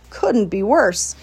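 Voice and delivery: slow, weighty dismissal; slow and emphatic. A narrator's reading. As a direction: drag it out, each word final. Charlotte rejects the word.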